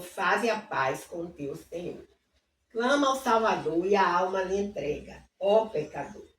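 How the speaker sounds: measured, devout recital of hymn verses; reciting a church hymn text; hymn reading. Acted. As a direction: read the hymn lines reverently. Reads hymn lyrics aloud.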